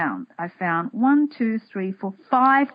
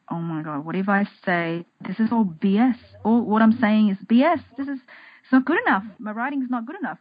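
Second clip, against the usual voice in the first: doubting inner critic; 4 semitones higher than usual. Retold or imitated. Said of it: "might sound like this".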